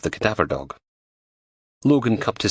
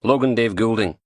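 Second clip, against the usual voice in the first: put-on flat Liverpudlian accent; 4 semitones higher than usual. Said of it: "in a flat Liverpudlian accent".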